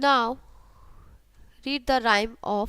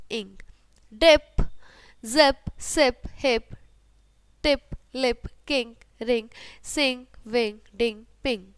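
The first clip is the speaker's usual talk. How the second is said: phonics drill; 4 dB louder, slower than usual. Shown as a demonstration. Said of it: "Sound of ip".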